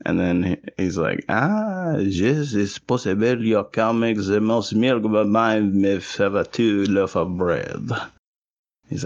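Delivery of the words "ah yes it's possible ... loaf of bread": a hint of a French accent, playing it smug; the French neighbour countering in a light French accent. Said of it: "with a French accent".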